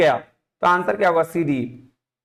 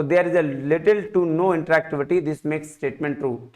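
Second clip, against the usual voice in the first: slow fading read; much slower than usual. Shown as a demonstration. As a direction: read it slowly and let it fade. Reads option slowly, fading. (धीरे पढ़ते हुए आवाज़ धीमी)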